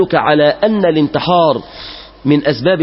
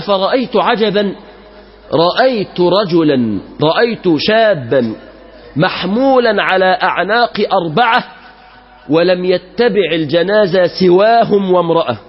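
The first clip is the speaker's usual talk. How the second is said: slow, measured classical Arabic storytelling; solemn story narration; 3 semitones higher than usual. A narrator's reading. Preacher telling worshippers an old tale, slow and solemn. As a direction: draw the congregation into the tale.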